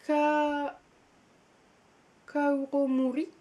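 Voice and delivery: Japanese name said in a self-mocking, put-on Japanese accent; hammed-up Japanese accent, half laughing at yourself. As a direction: try a jokey Japanese accent on the author's name. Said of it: "avec mon super accent, euh, japonais qui, qui tue".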